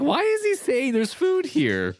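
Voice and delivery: high, slow mock bewilderment; puzzled retelling. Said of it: "I was like".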